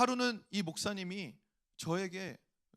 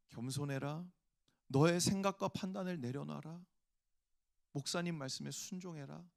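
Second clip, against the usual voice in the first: gentle voice of the Lord; 2 semitones lower than usual. Retold or imitated. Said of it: "이런 감동이 들어오는 거예요". (낮고 조용한 주님의 음성)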